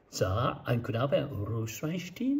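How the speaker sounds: every syllable of ザ・アインクナップ pronounced flatly and evenly; mock Japanese reading. Shown as a demonstration. Teacher mocking how Japanese schools read German poems. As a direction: lightly mimic the stiff syllable-by-syllable classroom German. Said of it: "っていうふうな感じで".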